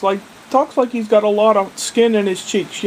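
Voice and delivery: put-on a light Brooklyn accent, talking with full cheeks; imitating Brooklyn accent. The speaker imitates the chef's Brooklyn talk, light Brooklyn accent. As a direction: mimic a Brooklyn chef, words rounded and thick. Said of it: "He talks like this".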